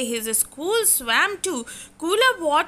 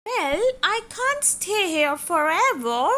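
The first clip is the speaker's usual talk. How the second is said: small resolve; 5 semitones higher than usual. Acted. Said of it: "he said at last".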